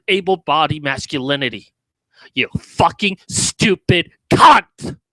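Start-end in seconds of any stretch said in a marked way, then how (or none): 2.3-5.0 slow yelled insult. Real, not acted. Angry rant at the clip.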